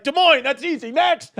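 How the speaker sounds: high, loud rattled-off answer; cocky game-show answer; quick excited answer. Retold or imitated. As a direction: fire back the capital. Rapid quiz answers to crowd.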